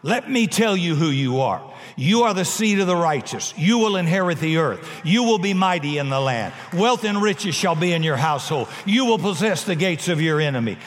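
retold emphatic fatherly declaration; emphatic interruption. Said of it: "I remember just jumping up".

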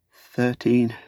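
slow, halting repeat of thirteen; faltering. Acted. Frightened hobbit answers the stern lord, slow and faltering. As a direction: hesitate and stumble over the number. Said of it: "faltered Pippin".

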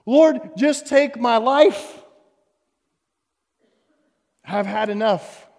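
rising, pleading cry of a desperate prophet; anguished prophet crying out to God; voicing Elijah's despair. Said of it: "he's like".

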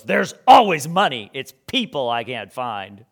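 missionary friend firmly cutting off the question; retold sharp reply. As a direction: snap it back like the annoyed missionary. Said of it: "he looks at me and he goes".

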